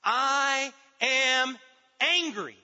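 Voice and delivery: God's declaration. Acted. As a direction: ring it out as God declaring his anger. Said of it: "He said".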